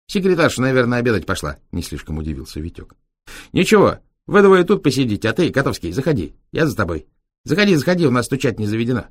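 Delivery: very high, bright gypsy voice; gypsy driver voice. Acted. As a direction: explain eagerly like a gypsy lad. Витёк ведёт гостей. (высоким голосом цыгана)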